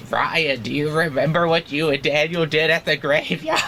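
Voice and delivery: lightly voiced zombie, teasing; a hint of undead menace. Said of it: "let me get my best zombie voice going".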